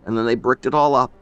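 put-on loud, urgent old man's voice; grieving old man. Old man tells how they sealed the hole, urgent. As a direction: rush through the terrible memory.

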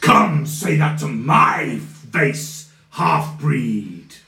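slow menacing dare; villain challenge. Acted. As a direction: dare him slowly.

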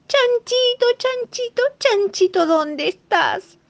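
high, loud calling for a lost brother. Acted. Two piglets calling for their lost brother, high and loud. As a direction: call him across the field. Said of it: "empezaron a llamarlo".

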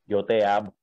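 firm, strong declaration. Retold or imitated. A voice in his head at the traffic light, strong. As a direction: say it firmly, a little forcefully. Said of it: "pero fuerte".

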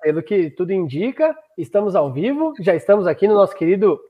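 echoing room sound. Real, not acted. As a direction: voice echoing back. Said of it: "inclusive tá ecoando aqui pra mim".

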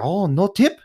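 high-pitched mock Asian accent; put-on Asian accent, rising in surprise. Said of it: "sorry for the Asian accent".

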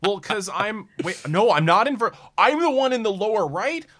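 high loud flustered cries; panicked. Acted. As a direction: get lost on screen, panicking. Acted Mario Kart confusion panic.

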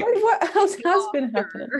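West Country twang; Gloucester accent. Shown as a demonstration. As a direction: say it with a Gloucester burr. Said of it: "very Gloucester type".

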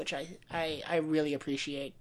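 whispered aside. Real, not acted. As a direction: breathe it out softly. Unvoiced soft remark.

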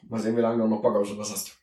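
talking with a parched mouth; dry throat, sticky speech. Real, not acted. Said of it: "mein Mund ist total trocken".

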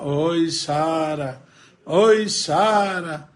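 slow, drawn-out wailing call for Sara; crying lament. Acted. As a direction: moan her name like a heartbroken madman. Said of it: "tá o tempo inteiro reclamando". (lamento choroso e arrastado)

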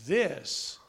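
voice from heaven. Retold or imitated. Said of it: "And that voice said".

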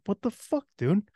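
high, squeaky what the fuck; incredulous yelp at the parents; imitating his own stunned outrage; mock outraged disbelief. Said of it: "it's like".

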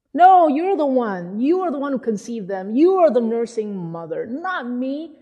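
mildly exasperated protest, leaning on YOU; a touch of fed-up insistence; grumbling. Retold or imitated. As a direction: imitate a stressed leader pushing the blame back. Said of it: "He was kinda grumbling".

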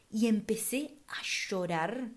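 hushed, slow whisper. Real, not acted. Telling listeners she began to cry, in a slow whisper. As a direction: let the memory drop to a breathy whisper. Recalling crying at the mirror.

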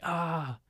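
half-hearted demonstration of a scream; mild mock scream. Shown as a demonstration. Showing how to scare your friends, mild mock scream. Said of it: "you're supposed to scream".

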